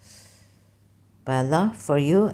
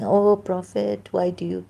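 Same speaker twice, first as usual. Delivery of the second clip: mock sweet talk; 3 semitones higher than usual. Mocking Allah sweet-talking the Prophet, higher gentle voice. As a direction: coo it sweetly, poking fun. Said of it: "sweetly speaking, gently".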